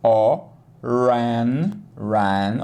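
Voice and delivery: O then ran, the syllables pulled apart slowly; orange broken into syllables. Shown as a demonstration. Teacher breaking orange into syllables for the class. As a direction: split it up as O, ran, ran. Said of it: "aqui uma mistura entre o A e o E".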